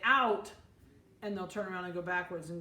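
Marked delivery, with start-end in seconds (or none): 0.0-0.5 sharp, louder one-word command to the dog; firm command. Shown as a demonstration. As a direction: bark it out like a trainer. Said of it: "you can say".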